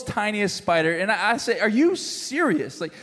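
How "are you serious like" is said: mock indignant disbelief; acted exasperation, emphatic; retold trash talk. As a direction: complain like a put-upon husband. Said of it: "as I'm talking trash to her".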